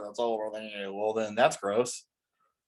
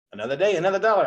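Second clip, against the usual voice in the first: mock quote; 6 semitones higher, 4 dB louder, much faster than usual. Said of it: "I hate that one".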